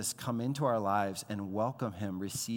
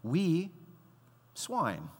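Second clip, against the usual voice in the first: slow, measured recital of verse; poem reading; slower than usual. Acted. Preacher reading a poem to the congregation, measured recital. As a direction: read the poem with weight and pauses.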